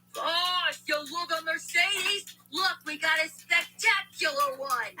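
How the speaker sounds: high, slow proud shout; showing off the stolen car; excited call. Acted. Henchman calls to his boss about the car, excited. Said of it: "pointed to a car ... and screamed".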